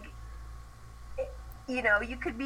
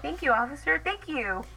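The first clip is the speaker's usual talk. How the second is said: through gritted teeth; 4 semitones higher than usual. Pretend. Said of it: "You gotta talk through your teeth".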